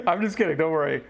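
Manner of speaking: laughing through the words. Real, not acted. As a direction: giggle while saying it. Teasing viewer, repeats laughing.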